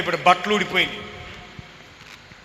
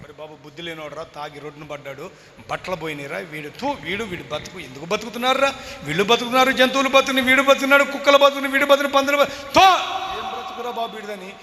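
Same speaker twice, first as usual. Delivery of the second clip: mocking scorn; 3 semitones higher than usual. Townsfolk scorning the drunk, building sneer. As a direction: sneer at him, rising to a yell.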